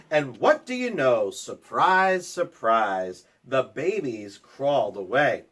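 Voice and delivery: lilting storybook read-aloud; reading to children. A narrator's reading. Teacher reading a picture book to kids, lilting read-aloud. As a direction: read the rhyme to the class, sing-song.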